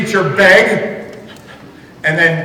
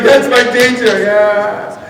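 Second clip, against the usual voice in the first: put-on cheering kids; 5 semitones higher, 4 dB louder, slower than usual. Kids cheering a beloved teacher.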